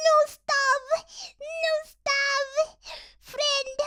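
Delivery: high, loud mock-Russian commands; hammed-up Russian gamer urging the team on. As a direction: shout it like an imitated Russian teammate. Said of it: "they're always like".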